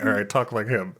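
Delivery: laughing mock director. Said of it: "They're like".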